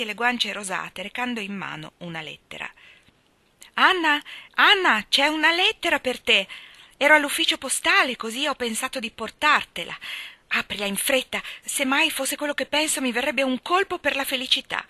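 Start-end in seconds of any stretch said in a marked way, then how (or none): 3.7-14.8 put-on breathless, high-pitched girlish excitement; excited Diana. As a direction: burst in shouting the good news. Diana bursts in with news. (ragazza euforica che corre con una notizia)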